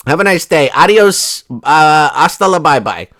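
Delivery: playful mock farewell; sarcastic farewell. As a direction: wave them off with fake cheer. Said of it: "sarcastic farewell".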